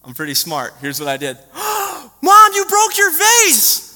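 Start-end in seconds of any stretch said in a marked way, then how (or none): 1.5-3.9 high, loud mock astonishment; fake shocked gasp. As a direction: play the innocent kid who just found it broken. Boy fakes surprise to his mom.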